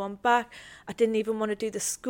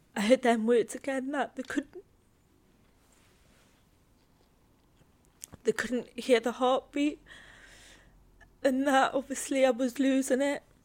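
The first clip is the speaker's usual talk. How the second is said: getting emotional, higher pitch; 3 semitones higher than usual. Recounting a hospital scan, after apologizing: getting emotional. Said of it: "I'm getting emotional".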